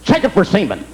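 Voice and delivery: very slow, matter-of-fact detective; slow, deadpan crime-scene order; bored cop. Acted. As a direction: drawl it like a jaded investigator. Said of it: "do they walk onto a crime scene like".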